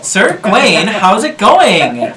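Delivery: sweeten it into a lady's voice; man doing a woman's voice. Acted. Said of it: "There you go. There she is".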